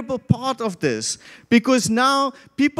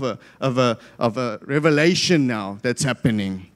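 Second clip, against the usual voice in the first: upset religious leaders; 7 semitones lower than usual. Retold or imitated. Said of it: "And so they're upset".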